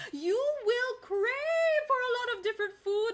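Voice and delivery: high, excited mother longing for the greens; craving mother. Acted. Pregnant mother telling children about her craving, high and eager. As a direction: point at the greens and yearn. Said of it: "And she said".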